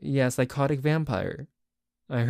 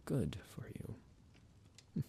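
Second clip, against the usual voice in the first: menacing whisper; 16 dB quieter, much slower than usual. Acted. Vampire warning his captive, slow menacing whisper. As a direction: whisper it slowly as a threat.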